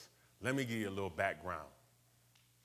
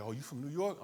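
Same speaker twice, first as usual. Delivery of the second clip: surprised gang member; 6 semitones higher than usual. Retold or imitated. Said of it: "They'd be like".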